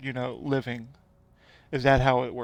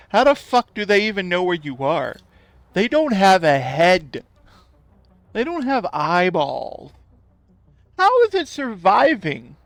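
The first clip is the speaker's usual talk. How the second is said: incredulous disbelief; 3 semitones higher, 4 dB louder than usual. Retold or imitated. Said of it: "I was like".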